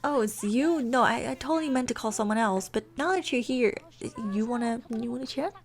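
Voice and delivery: stammered, lightly acted backpedalling; mildly flustered pretend nonchalance; covering up a lie. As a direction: stumble through a fib on the phone. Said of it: "She kinda lied and said".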